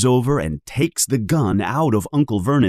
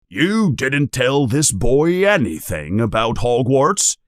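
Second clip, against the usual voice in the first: stormy voice; 4 semitones higher than usual. Acted. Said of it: "in a voice that sounds like a storm".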